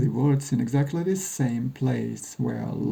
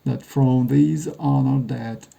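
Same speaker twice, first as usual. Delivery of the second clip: sharp, clear recitation. Acted. Jim recites Lincoln's address where it was given, sharp clear oratory. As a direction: open the speech as if to a crowd. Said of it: "Jim's voice is sharp and clear".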